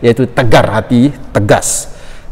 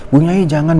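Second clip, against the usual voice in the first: higher, imitated teacher's objection; startled plea; 5 semitones higher than usual. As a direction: act out a startled teacher pleading. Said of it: "Guru saya juga kaget".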